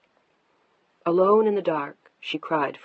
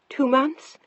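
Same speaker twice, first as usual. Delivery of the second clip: rising, stunned question; can't believe what she heard; shocked disbelief; 8 semitones higher, 3 dB louder than usual. Acted. Shocked wife questions husband.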